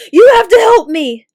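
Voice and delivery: very loud, high desperate cry for help; panicked plea. A narrator's reading. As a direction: beg for your life. Terrified youth begs soldiers.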